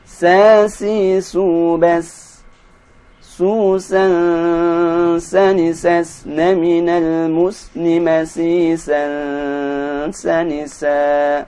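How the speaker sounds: teacher modelling sin syllables; recitation drill. Shown as a demonstration. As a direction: chant each sa syllable clearly. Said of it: "drill syllables".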